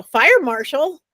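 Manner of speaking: slow, mocking disbelief; imitated derisive question with a "Ha!"; scoffing laugh. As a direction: echo it incredulously, then scoff. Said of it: "They laugh".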